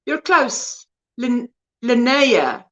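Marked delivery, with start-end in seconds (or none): 1.2-2.6 slowly trying Linnea as "lin-NAY-a"; corrected pronunciation. Shown as a demonstration. Host trying a viewer's name, Linnea sounded out as "lin-NAY-a". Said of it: "Emphasis on the".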